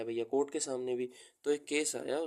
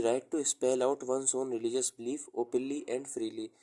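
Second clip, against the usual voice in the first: slow, spaced-out dictation pace; much slower than usual. Real, not acted. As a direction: read it out slowly for note-taking. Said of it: "मैं इसको धीरे धीरे बोल रहा हूँ".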